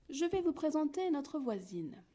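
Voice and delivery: mother hen to her chicks. A narrator's reading. Mother hen introduces neighbour.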